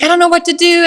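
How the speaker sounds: high, loud frantic cry; mock-panicked high voice; panicked husband. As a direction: squeal it like a man who's lost. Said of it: "and he's like".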